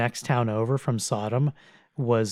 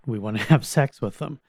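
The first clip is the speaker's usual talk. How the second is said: slight laugh breaking into the quote. Real, not acted. Preacher quoting the townsmen's demand, laughing despite himself. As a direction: let a laugh slip mid-sentence. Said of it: "forgive me for laughing".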